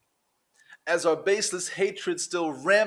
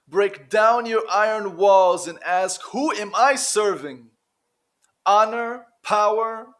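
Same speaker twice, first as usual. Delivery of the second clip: louder, challenging spoken-word plea; forceful exhortation; 3 semitones higher, 6 dB louder than usual. Acted. Poet challenging listeners to break down their walls, forceful exhortation. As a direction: drive the challenge home, each item set apart.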